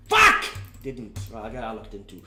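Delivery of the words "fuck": frustrated swear. Real, not acted. Draw page fails to update.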